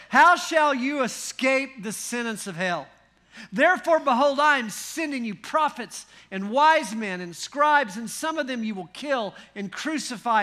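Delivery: booming scripture rebuke, slowing at the end; mock-tender denunciation. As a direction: thunder the verdict, then draw out the last words. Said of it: "he says to them these tender words".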